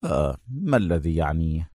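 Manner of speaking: unhurried low calm; calmly. A narrator's reading. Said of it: "بهدوء وهو يقول".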